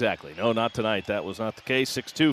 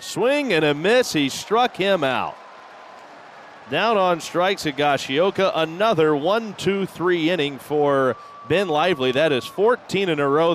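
excited call; 5 semitones higher, slower than usual. Real, not acted. Strikeout call.

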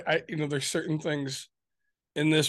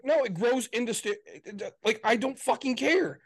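exasperated rant; 6 semitones higher than usual. Retold or imitated. Husband retells telling his wife he doesn't care, fed up. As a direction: drag out the last words in disgust.

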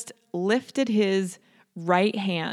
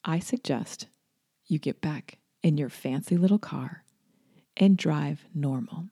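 very calm. Retold or imitated. The truck driver telling the angry woman to drive normal, very calmly. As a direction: lecture her with unshakable calm. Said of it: "very calmly".

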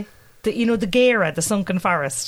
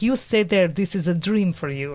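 lightly put-on French accent; low, slow French shopgirl imitation; 3 semitones lower, slower than usual. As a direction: give it a hint of French. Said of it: "That was a French accent there".

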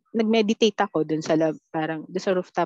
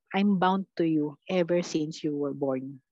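quoting the guide; 3 semitones lower, slower than usual. Retold or imitated. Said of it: "ang sinabi lang niya is".

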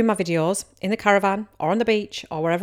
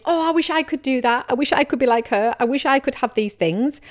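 higher-pitched, mildly wistful mock longing; lightly acted envious wishing; wishful envy; 4 semitones higher than usual. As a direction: imitate someone longing to be like her. Voices envious wishful thinker.

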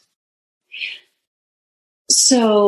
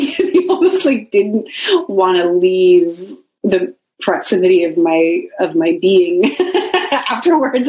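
laughing. Real, not acted. Laughs while telling.

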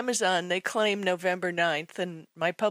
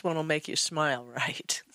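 whispering; 3 semitones lower, 4 dB quieter than usual. Real, not acted. Aside about the voicemail.

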